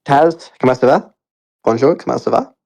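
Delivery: playful Canadian French greeting with a rising tune; showing-off French greeting. Pretend. Host greets Taz in proud Canadian French, playful. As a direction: show off your Canadian French, lightly. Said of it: "I was gonna speak French for a second and show off".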